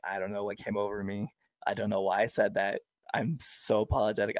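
remorseful apology. Retold or imitated. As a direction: keep it small and contrite. Woman keeps apologising, retold softly.

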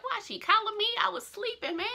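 groggy annoyance. Retold or imitated. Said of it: "I'm like".

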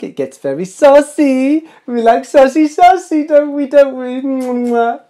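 high, loud, slow playful sing-song; coy squeaky saucy teasing; cheeky tease. Acted. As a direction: flirt with the viewers, all cheek. Teasing audience about being saucy.

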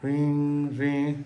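voiced ring ring of a phone; mock phone ring. Telling a sauna joke, imitating the phone ringing. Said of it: "suena el teléfono".

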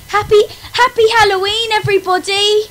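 sarcastic cheer. Real, not acted. Ironic holiday greeting.

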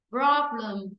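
"Problem" said with -luhm at the end; correct reduced vowel. Shown as a demonstration. Teacher repeats the right form, "Problem" ending in unstressed schwa. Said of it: "Bởi vì đây là âm ơ".

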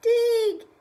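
high loud shout with a laugh. Acted. Bear shouting to the moles, laughing. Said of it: "he shouted to the moles".

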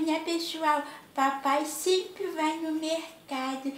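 grandma voicing Tiliquinho to her viewers, high and playful. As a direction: play the little cheeky creature filming mom. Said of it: "Tiliquinho tá ali gravando tudo".

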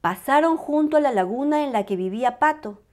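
ordinary delivery

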